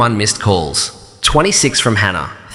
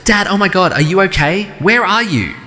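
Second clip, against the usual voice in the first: shaking, frightened; 8 semitones higher than usual. A narrator's reading. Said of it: "Her voice came through shaking".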